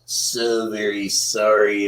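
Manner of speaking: lightly voiced politician impression, low and soft; Donald Trump. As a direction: do a low-key Trump apology. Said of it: "in my Donald Trump voice".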